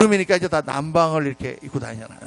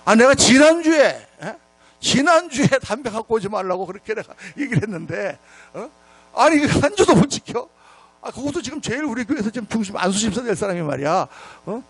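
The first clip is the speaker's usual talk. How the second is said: retold indignation; 3 semitones higher than usual. Pastor silently fuming at a deacon, retold indignant rant. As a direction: fume over the broken promise, starting forcefully. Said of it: "막 열이 막 확 일어나는 거예요".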